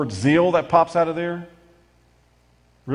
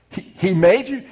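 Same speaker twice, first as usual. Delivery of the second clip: mock incredulous teacher; 4 semitones higher, 4 dB louder than usual.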